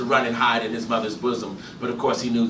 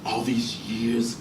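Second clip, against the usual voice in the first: dazed murmur; 9 dB quieter than usual. Acted.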